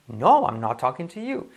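"no" swooping high, the sentence following it; negative intonation. Shown as a demonstration. Teacher models negation, high pitch on "no". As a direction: punch "no" high, then link "not talking to you". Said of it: "No para la negación".

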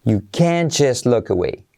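"can't" stressed as a whole word, without its T. Shown as a demonstration. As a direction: punch "can't" and let the T go. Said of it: "acentúas toda la palabra". ("can't" bien acentuado, sin pronunciar la T)

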